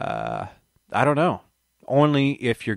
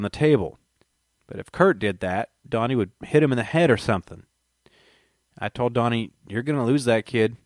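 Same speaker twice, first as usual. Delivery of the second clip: put-on Texas accent. Reading Leland's account aloud to viewers, light Texas accent. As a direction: read Leland's words in a mild Texas accent. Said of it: "how come you're using a Texas accent for Leland Cobain".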